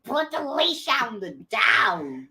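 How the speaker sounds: slow, lightly voiced mom order. A hint of mom telling her daughter to leash the dog. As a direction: drawl it like mom giving an order. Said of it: "This is my mom voice".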